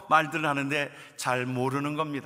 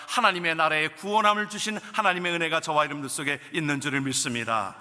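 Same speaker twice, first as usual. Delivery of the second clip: ordinary delivery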